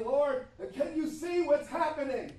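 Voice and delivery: a bemused believer calling out, laughing; laughing plea to the Lord. Acted. Preacher voicing a believer asking the Lord, with a laugh.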